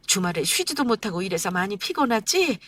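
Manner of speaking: mother-in-law comforting tired son-in-law; gentle concern. Acted.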